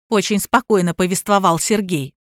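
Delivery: ordinary delivery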